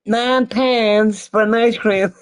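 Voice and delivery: slow, high, loud disbelief at the price; stretched-out indignant outburst; outraged disbelief. Real, not acted. Outraged at ice cream price.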